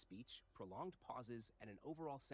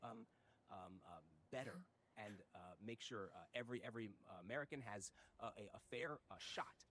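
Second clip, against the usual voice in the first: Joe Biden caricature. Acted. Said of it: "exaggerated and caricatured version of Joe Biden".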